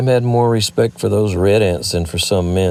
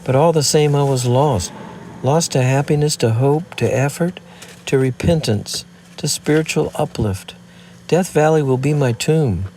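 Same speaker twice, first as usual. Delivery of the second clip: higher, swelling with passion; voice rising; 4 semitones higher than usual. Acted. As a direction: let the voice rise with feeling. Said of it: "her voice rising".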